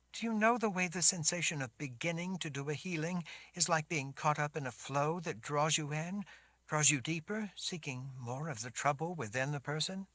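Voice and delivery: put-on high girl's voice, unsure; a young girl explaining hesitantly; shaken girl. Sammy describes healing.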